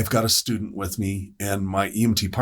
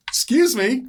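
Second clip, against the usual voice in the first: high, louder "Excuse me."; urgent polite alarm; 5 dB louder than usual. Retold or imitated. Sammy alarmed in the back.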